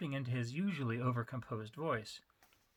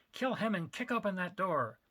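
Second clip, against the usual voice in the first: yelled order; 5 semitones higher than usual. Acted. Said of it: "Rigashi yelled at his man".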